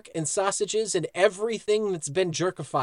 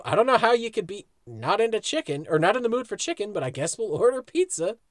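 lightly voiced Peggy, a bit quicker; Peggy impression; 2 semitones higher than usual. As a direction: quote Peggy with a light touch. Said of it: "Peggy comes out of nowhere".

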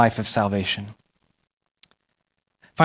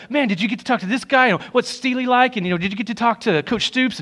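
excited fans; 8 semitones higher than usual. Retold or imitated. They would just be like.

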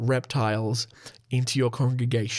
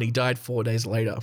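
ordinary delivery

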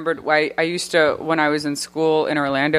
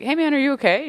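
mock concerned voice; 10 semitones higher, faster than usual. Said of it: "I was like".

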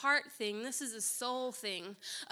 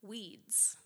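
hushed divine word; 5 dB quieter than usual. Retold or imitated. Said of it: "he said this word".

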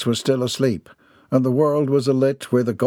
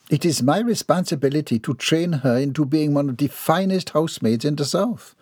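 higher, prim Southern lady; ladylike voice; 5 semitones higher than usual. Acted. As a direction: speak as a proper, composed matron.

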